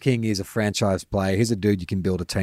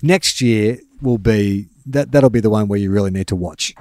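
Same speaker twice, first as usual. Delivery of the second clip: dramatic; 4 dB louder than usual. Pretend. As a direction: draw it out like a grave prophecy. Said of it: "I was just being dramatic".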